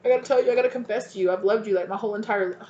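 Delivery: gushing confession. Pretend. Viewer confessing love to old flame, rushed and gushing. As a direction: spill it all out at once. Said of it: "And you're like".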